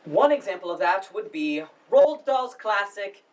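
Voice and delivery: formal, halting welcome speech; lightly pompous drama society director addressing the house. Acted. Drama society head welcomes audience to the spring production, formal speech. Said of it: "that was Chris's monologue from the play".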